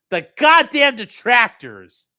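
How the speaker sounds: milk each word theatrically; mock dramatic read. Shown as a demonstration. Streamer rereading a phrase for chat, hammed-up drama.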